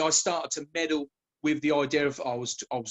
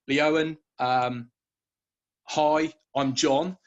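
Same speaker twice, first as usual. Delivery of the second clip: slow, otherworldly spirit voice; a calm, unhurried entity introducing itself; spirit guide; much slower than usual. Retold or imitated. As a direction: draw the words out like a presence speaking inside her head.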